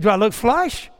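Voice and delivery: Barney getting scared; worried deputy asking his friend if he's sick; panicky Barney. Retold or imitated. Barney panicking in retold scene.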